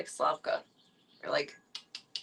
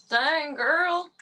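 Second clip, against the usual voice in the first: loud excited praise; 8 semitones higher, 6 dB louder than usual. Real, not acted. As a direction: hype up the kitty. Reacting to weight.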